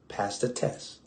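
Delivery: whispered urging, under the breath; a hushed whisper pressing the congregation. Acted. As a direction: breathe the words, no voice. Preacher drops to a whisper.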